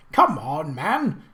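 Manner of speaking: impatient. Acted. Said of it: "the prince said impatiently".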